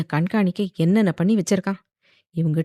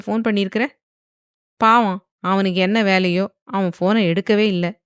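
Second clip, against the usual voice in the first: tutting mock pity; 3 dB louder than usual. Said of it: "என்று உச்சு கொட்டினான்".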